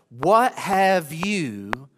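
slow, drawn-out demon voice; a demon dragging out its challenge; demon's question. Acted. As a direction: stretch it out like a menacing spirit.

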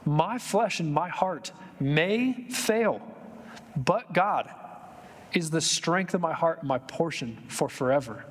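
slow, tender reading for tired hearts; slow and soothing, offered to the hurting. Shown as a demonstration. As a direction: read it slowly, gently, to comfort. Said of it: "can I read that for some of the tired hearts".

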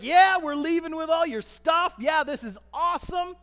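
loud, high whoop of victory; celebrating Israelites. Acted. Israelites gloating at the Egyptians as they leave, high loud cheer. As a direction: cheer like a crowd walking free.

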